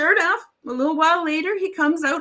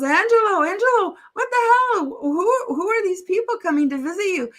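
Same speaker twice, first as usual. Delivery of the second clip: higher-pitched call to a friend; incredulous calling out; 5 semitones higher than usual. Acted. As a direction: call out in amazed disbelief. Calls out to friend in joke.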